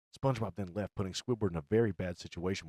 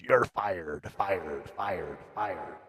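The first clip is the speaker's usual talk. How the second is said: vocal echo, fading away; much slower than usual. Acted. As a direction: repeat "fired" as a receding echo. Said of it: "echoing along with the words".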